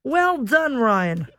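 a light attempt at an Australian accent; amateur Aussie accent, half-hearted. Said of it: "I can do a British accent ... Australian accent is absolutely abysmal".

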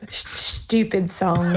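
"stupid song" in a halting, slow attempt at an Australian accent. Shown as a demonstration. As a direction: try "stupid song" the Australian way, slowly and carefully. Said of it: "start saying it the Australian way".

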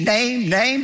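"name, name" each hit with weight; emphasis on name. Shown as a demonstration. Pastor drilling the congregation on "name", stressed each time. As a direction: punch "name" twice, deliberately. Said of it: "Notice the emphasis on the word name".

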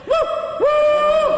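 high hooting woo heard far off; distant bunyip reply. Acted. Hunter retells hearing the bunyip's far-off high hooting answer. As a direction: call back like a creature in the distance. Bunyip call coming closer.

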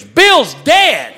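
high, loud mock-panicked yell; retold scream. Friend bursting in on sick mom, high mock-panicked scream. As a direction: yell it out high like an alarmed kid. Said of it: "runs into her bedroom and screams".

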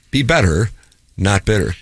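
a touch patronizing, evenly measured; mildly condescending mentor; condescending counsel. Retold or imitated. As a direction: repeat it like a pat piece of advice. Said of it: "says it in a condescending tone".

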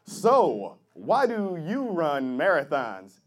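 TV interviewer. Acted. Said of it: "the guy interviewing, he's like".

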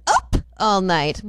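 "Up" punched and set apart, slowly; stress on UP. Retold or imitated. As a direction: hit "Up", pause, then ease through the rest. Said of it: "So that's kinda why I get that up".

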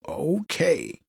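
whispered okay. Acted. Stunned reaction.

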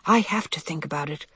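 understated, calm seriousness; serious but calm. Acted. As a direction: state it soberly, without worry. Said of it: "He sounded serious, but calm and unworried".

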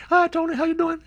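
very high-pitched lady impression; high mock woman's voice greeting the host; imitated radio guest. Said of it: "That's how she talked".

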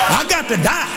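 I got to die, shouted high on got; ringing preacher cry. Acted. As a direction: belt "got" high and rising. Preacher repeats line, contrasting takes.

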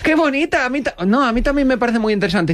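high, fake interested voice; forced enthusiasm. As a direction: pretend to love it. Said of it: "empecé a decir". (entusiasmo fingido y agudo)

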